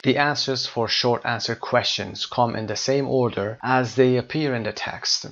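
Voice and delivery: slow, deliberate read-aloud of the instructions; lightly formal instruction read. Acted. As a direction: spell out the task slowly. Reads tip from book.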